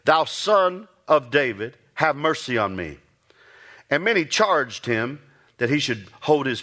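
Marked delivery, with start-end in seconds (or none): 0.1-3.0 a slow, measured plea, only lightly raised; calling out the first time, held back; crying out for mercy. Retold or imitated. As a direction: blind beggar's first cry, restrained. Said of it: "began to cry out and say".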